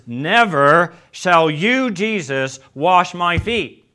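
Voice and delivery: a proud disciple refusing his master; Peter's stubborn refusal. Acted. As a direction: plant your feet and refuse him, word by word. Peter refusing the foot washing.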